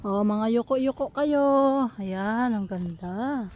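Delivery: whispering while hiding. Real, not acted. Hushed while sneaking past gate.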